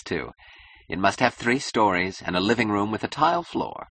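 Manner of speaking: incessant, self-assured chatter with emphatic openings; a touch of grand eccentric writer; lightly voiced eccentric client. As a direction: rattle on like an imperious eccentric.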